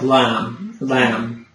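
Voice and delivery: LAMB with a vowel between "lam" and "lahm"; middle vowel. Shown as a demonstration. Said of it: "in the middle".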